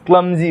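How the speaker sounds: क्लमजी with a voiced z sound; correct z pronunciation. Shown as a demonstration. Teacher repeating the correct क्लमजी for the class. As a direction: stress the z in क्लमजी. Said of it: "ज का pronunciation आता है".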